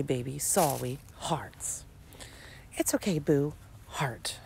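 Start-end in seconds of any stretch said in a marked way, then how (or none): 1.2-1.8 hushed flat read; whispered. Acted. 3.9-4.4 hushed flat read; whispered. Acted.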